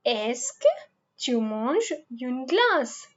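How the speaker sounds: slow French question with est-ce que. Shown as a demonstration. Teacher modelling the question slowly for students. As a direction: sound out est-ce que tu manges une glace slowly. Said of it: "Now you just put est".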